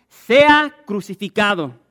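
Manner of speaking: very loud, slow mob roar; crowd shouting. Acted. The whole crowd roars back at Pilate, very loud and slow. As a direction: drag out the demand like a furious crowd. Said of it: "Todos le dijeron".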